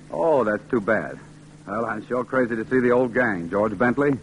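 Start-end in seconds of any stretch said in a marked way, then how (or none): none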